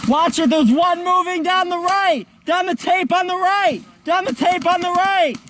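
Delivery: calling out. Real, not acted. Calling out enemy position to team.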